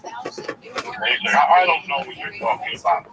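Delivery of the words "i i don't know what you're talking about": mock upper-crust denial, a touch haughty; snooty rich man. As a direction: play a lightly voiced snob feigning innocence. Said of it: "He's like Thurston Howell the third".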